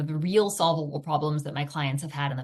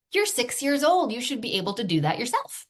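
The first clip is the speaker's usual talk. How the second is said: scolding parent; 6 semitones higher than usual. Retold or imitated. Mom scolding her young son, exasperated. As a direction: nag a six-year-old like a fed-up parent. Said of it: "see if any of these sound familiar".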